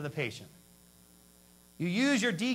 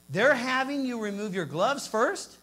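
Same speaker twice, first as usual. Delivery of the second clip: incredulous question; 4 semitones higher, 4 dB louder, slower than usual. Retold or imitated. Outraged question about glove removal.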